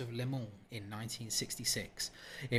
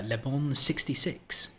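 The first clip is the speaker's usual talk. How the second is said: "Le Bon sixty-six" said slowly in a hammed-up French accent; mock French accent; 5 dB louder, slower than usual. Shown as a demonstration. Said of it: "That was my best French accent".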